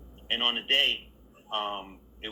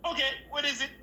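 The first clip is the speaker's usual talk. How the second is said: much higher, questioning voice; imitated director; faster than usual. Director Steve asking the actor for his line, high and questioning. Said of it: "he was like".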